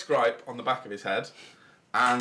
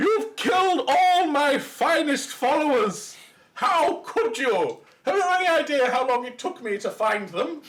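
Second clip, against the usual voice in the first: loud, enraged screech pitched way up; 5 dB louder than usual. Voicing the were rat king screaming in anger at the players. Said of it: "the were rat king screams in anger".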